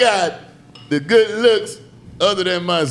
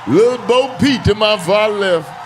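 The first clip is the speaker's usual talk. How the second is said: hype man shout; slower than usual. Acted. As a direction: call out the lineup like a hype man. Host hyping intros.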